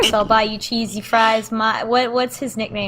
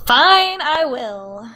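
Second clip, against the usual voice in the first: mock sulk; 4 semitones higher, much slower than usual. Mock sulky reply.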